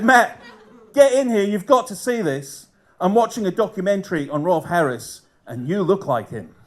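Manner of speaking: put-on Aussie accent. Wife shouting her husband through to the TV, Aussie accent. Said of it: "Do you mind if I do the Aussie accent?".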